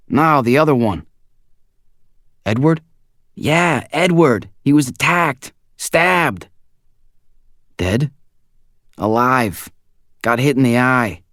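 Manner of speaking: breathless bad news; tense friend voice. A narrator's reading. Zeke's tense report.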